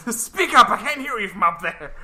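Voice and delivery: loud, mocking taunt; pretending not to hear. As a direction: shout down at a tiny man. Taunting from above.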